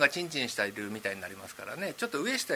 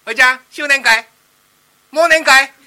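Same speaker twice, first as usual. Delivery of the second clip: put-on loud, high heckle from a child; loud, high cheeky child; kid's shout; 7 semitones higher, 15 dB louder than usual. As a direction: yell it up at him like a cheeky kid. Kid heckling again.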